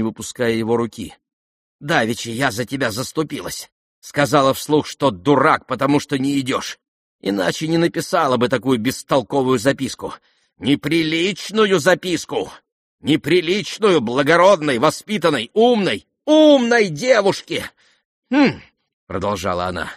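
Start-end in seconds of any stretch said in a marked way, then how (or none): 1.8-17.7 high, loud, emphatic ranting; indignant rant. Acted. Lizaveta ranting about Aglaya's indecent note. 18.3-18.6 high loud scornful hmph; indignant hmph. Acted. Lizaveta snorting at the note, indignant.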